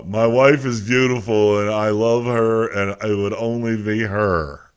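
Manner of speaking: slow, drawn-out dutiful husband, lightly voiced; mock devoted husband. Host answering for silent Pete, mock devoted husband. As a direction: recite it slowly like a mock-loyal husband.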